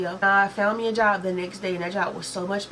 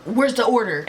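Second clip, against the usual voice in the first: aggressive retold demand; 2 semitones higher, 4 dB louder, slower than usual. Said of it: "He closed it aggressive".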